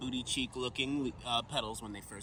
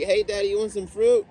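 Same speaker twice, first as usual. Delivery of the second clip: high, loud cartoon plant voice; squeaky plant offering Daddy fruit; talking canary plant; 10 semitones higher, 14 dB louder than usual. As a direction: chirp it up like a cheeky talking plant. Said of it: "that canary comes up and starts talking shit".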